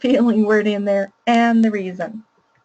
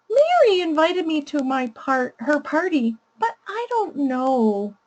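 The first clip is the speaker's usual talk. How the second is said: put-on high child voice; 5 semitones higher than usual. Shown as a demonstration. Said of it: "I'll use a really high voice to read the child's problem".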